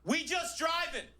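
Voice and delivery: high, slow, breezy we just driving; woman's breezy reply. Retold or imitated. Driver answering the lecture, slow and breezy. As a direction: shrug it off, easy and slow. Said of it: "she goes".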